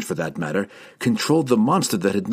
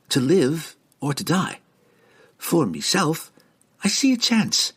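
lightly voiced pirate woman, higher, taunting; a sly sea rogue sizing up her captor; pirate woman threatening; 6 semitones higher than usual. A narrator's reading. Canterbury threatens captive Jerdan.

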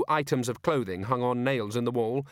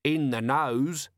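cheerful; 4 semitones higher, much slower than usual. Acted. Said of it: "said Nobby cheerfully".

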